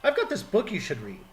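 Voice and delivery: high, loud overly cheerful hello; chirpy greeting. Pretend. Teasing missionaries, a high overly cheerful greeting. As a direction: greet them like a keen door-knocker. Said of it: "walking up to missionaries going".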